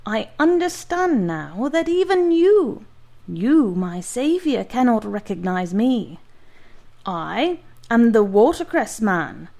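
exuberant giant. Acted. Former patient to his doctor, boisterous triumph. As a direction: crow it triumphantly.

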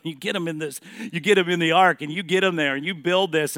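booming divine charge to Noah; God commanding Noah. Acted. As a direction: call it out like a commission. Preacher voicing God to Noah.

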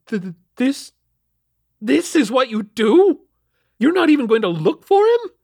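high, loud, stammering outrage; stammer, then rise into indignant disbelief; outraged. A narrator's reading. Mother confronts officer who won't search, outraged. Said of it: "she said, outraged".

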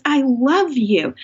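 slow and tender; slow, tender "I love you"; intimate. Retold or imitated. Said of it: "he so intimately says".

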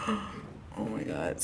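breathless whispered oh my God; slow, barely voiced gasp of dread; whispering in horror as a teen; horrified whisper.

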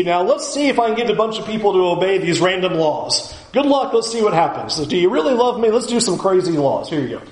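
offhand, quick lawmaker making it up; God, mockingly casual. Capricious God testing people with random laws, mock casual. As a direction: toss it out briskly, dropping away at the end. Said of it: "as if God was just randomly throwing out laws".

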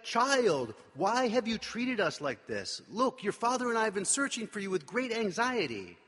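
mock-scold him like a worried mother in public; anxious scolding parents. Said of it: "They're like".

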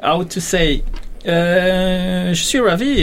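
light American accent in French, a hint of English filler. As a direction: play the New Jersey lady with a mild American lilt. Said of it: "une femme qui parle avec un fort accent américain".

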